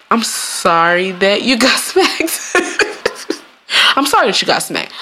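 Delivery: smug, half-laughing sorry; insincere apology. Acted. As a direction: say it without meaning it.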